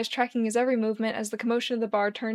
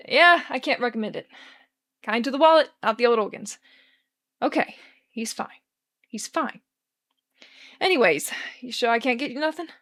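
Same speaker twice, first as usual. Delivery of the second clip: Charlie voice; 4 dB louder than usual. Acted. Charlie bluffing, bartender chatter.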